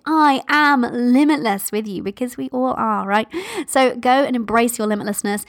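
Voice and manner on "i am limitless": put-on kids shouting. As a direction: shout it like your kids would. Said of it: "get them shouting".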